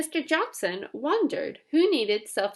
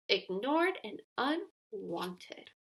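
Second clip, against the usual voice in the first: very soft and slow, trailing away; fading sadly; 4 semitones lower, 10 dB quieter, slower than usual. A narrator's reading. Narrator sighing over unsold boxes, very soft and slow. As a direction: let the words die out. Boxes ignored, story sags.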